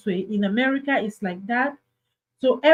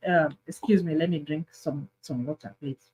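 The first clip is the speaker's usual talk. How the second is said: fading to a much softer, lower voice; a frail voice that trails away; weak, tearful plea; 6 semitones lower, 5 dB quieter than usual. Pretend. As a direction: beg for water as if drained from crying. Acting out a crying man.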